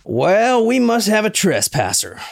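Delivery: high drawling Southern hick voice; hick Southern accent. Acted. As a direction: play it like a backwoods Southern hunter. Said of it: "I do know how to do a hick Southern accent".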